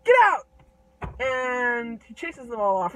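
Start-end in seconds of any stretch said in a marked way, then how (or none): 0.0-0.5 high, loud furious shout; enraged yell, pitched way up; outraged giant. Acted. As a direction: bellow at trespassers to get out. Giant chases kids from garden.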